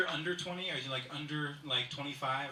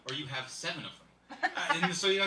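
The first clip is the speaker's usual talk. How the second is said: normal talking voice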